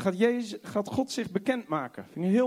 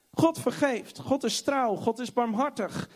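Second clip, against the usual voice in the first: ordinary talk, nothing marked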